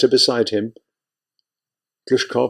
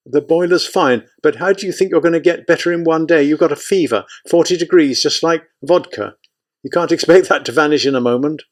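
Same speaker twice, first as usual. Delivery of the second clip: anxious aide; 5 semitones higher than usual. Acted. Anxious aide argues with commander.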